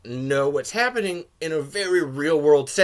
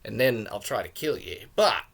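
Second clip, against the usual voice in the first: put-on loose Australian accent drifting toward South African; Australian-ish character voice; 4 semitones lower, slower than usual. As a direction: put on a rough Australian accent with drawn-out words. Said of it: "It's a little bit of an Australian accent".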